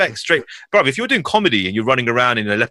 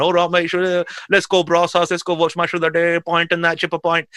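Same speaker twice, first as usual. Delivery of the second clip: higher-pitched matey character voice; Chabuddy; 5 semitones higher than usual. Acted. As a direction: play the chummy mate rounding up the lads for a pint. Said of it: "Chabadi would come around".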